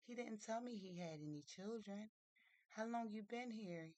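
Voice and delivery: lightly acted girl taken aback; surprised. Mary learns uncle has a son.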